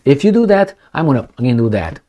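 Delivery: a lightly voiced tough general; mock tough general. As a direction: act out a blunt threat between rivals. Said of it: "they talk like this".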